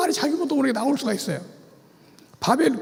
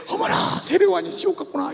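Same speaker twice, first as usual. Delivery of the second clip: breathy gasp, then a realizing sigh; a hammed-up aha moment; mock amazement; 3 semitones higher than usual. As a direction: act like a learner struck by a revelation. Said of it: "무릎을 치고 배우는 거야".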